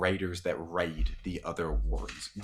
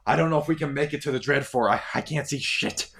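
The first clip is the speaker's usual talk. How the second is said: worried soldier; 7 semitones higher, 5 dB louder, faster than usual. Acted. Artos worried riding beside.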